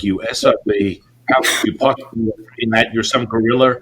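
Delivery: loud retold tirade; unraveling anger. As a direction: hurl mock insults like a man losing it. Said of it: "he just unraveled".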